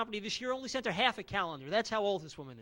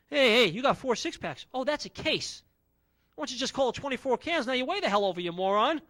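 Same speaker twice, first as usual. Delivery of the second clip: mock angry; 4 semitones higher, 5 dB louder than usual. Arguing with shopper.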